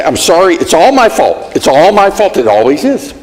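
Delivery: a hint of bitter, exasperated self-blame; bitter apology. Husband at his wits' end with his wife, bitter sorry. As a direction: sigh it out as if you've given up. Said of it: "the bitter apology".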